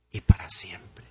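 whispered, breath only. Acted. Pastor hushes the final words to the church, whispered. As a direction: let it fall to a hush. Hushed close of a solemn point.

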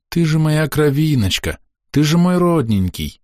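put-on high, tender cooing to a baby; mother cooing to her baby, a touch high. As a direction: coo lovingly over the little one. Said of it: "заворковал кто-то сверху нежно".

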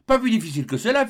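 high, fast casual brag; offhand boast. Acted. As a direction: toss it off lightly. Joe brushes off his feat.

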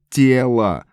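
loud, high full-lung shout; yelling at the top of his lungs. A narrator's reading. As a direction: bellow it out. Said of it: "заорал Эд на пределе лёгких". (крик во всю глотку)

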